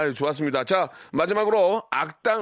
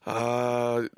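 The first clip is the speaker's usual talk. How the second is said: chimp finding a banana; 5 semitones lower than usual. Pretend. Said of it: "침팬지가 길 가다 바나나를 발견했어요".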